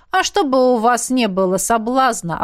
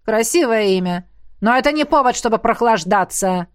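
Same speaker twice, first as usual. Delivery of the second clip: mildly raised, gruff retort; barking. Acted. Coach telling trainee not to slack, barking. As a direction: bark it back, brushing her off. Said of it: "рявкнул он".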